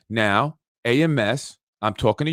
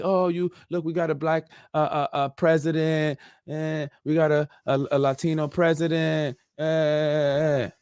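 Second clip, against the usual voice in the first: mock excitement; 3 semitones higher than usual. Mocking hyped-up community voice.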